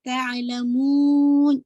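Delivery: तअलमून loud, long ऊ, brief nasal न; stop with short ghunna. Shown as a demonstration. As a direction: stretch the last vowel of तअलमून, then stop on न. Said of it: "रोकेंगे तो नाक़िस गुन्ना". (तअलमून खींचकर, आख़िर में नाक़िस गुन्ना)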